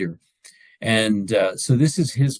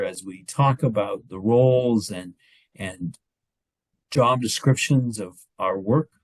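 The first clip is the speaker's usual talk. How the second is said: spoken prayer. Real, not acted. Leader praying to God to open the evening meeting, spoken prayer. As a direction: lead the group in an unhurried prayer.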